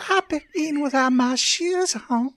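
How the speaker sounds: put-on high, shouted little-girl whine; childish shout. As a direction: yell it like a bratty child. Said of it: "You can see her regress".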